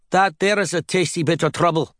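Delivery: put-on leer it like an old seaman; old sailor voice. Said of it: "said the sailor".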